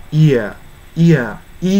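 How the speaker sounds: "イヤー" gliding from ee into a long a; diphthong demo. Shown as a demonstration. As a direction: join イー and アー in "イヤー", emphatically. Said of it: "イーとアーがくっついて".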